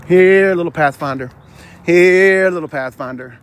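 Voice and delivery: coaxing "here, little Pathfinder" like calling a dog; calling a pet. Pretend.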